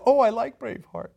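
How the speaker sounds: clueless boss pleased with himself; retelling Michael's oblivious delight; naive Michael. Retold or imitated. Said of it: "he's like".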